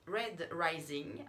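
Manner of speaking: slow, exaggerated English accent on the title. Shown as a demonstration. Booktuber announcing the first volume's title, English accent. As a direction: say the title like a proud English speaker. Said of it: "avec super accent anglais".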